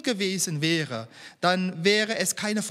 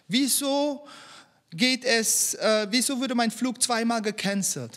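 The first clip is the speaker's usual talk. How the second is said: a believer pleading with God, pitch raised, questions pressing, later faster; complaining prayer; 4 semitones higher than usual. Pretend. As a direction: voice the frustrated questions to God, a little higher. (gespielt klagendes Gebet, etwas höher)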